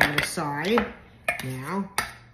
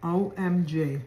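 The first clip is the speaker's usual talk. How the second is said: talking with a mouthful of food; mouth full; 3 semitones higher, 5 dB louder than usual. Real, not acted. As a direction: say it through a bite of food. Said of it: "Sorry, I was talking with my mouth full".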